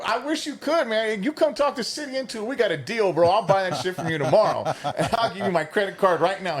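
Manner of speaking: high-pitched playful enthusiasm; retold overeager deal-making; mock eager buyer. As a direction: play along as a keen customer, amused. Acting out eager bargaining with caller.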